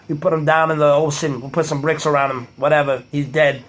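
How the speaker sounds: lightly voiced wiseguy; a hint of East Coast tough guy; East Coast mobster. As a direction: talk like a movie mobster brushing things off. Acts East Coast mobster addressing Tony.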